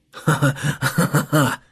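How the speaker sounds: slow, booming villain laugh; sudden laughter. A narrator's reading. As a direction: let out a slow, crazed laugh. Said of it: "неожиданно рассмеялся".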